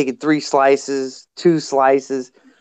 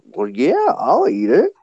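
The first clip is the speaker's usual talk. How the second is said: higher, eager take on the offer; eager Gary Gizzard; 7 semitones higher than usual. Retold or imitated. Gary Gizzard accepting the pizza, eager higher voice. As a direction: happily accept the leftover slice. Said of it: "Gary Gizzard goes".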